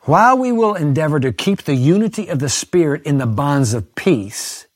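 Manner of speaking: slow, emphatic reading of her words; solemn pulpit reading; preached quotation. Shown as a demonstration. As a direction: lean on each phrase of the quote. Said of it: "she's writing now".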